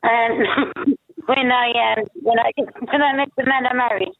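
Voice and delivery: down a well. Real, not acted. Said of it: "She sounds like she's at the bottom of a well".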